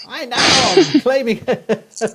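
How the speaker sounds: put-on high, slow, loud posh English accent with a laugh; posh Southern English accent. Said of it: "waltz in with my posh Southern English accent and go".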